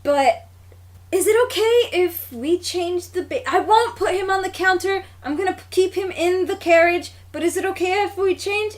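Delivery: mild mock politeness, asking nicely; very polite ask. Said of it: "very politely".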